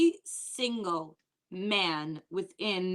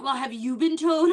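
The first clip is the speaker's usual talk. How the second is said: mock defensive guest; 4 semitones higher, 6 dB louder than usual. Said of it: "she's like".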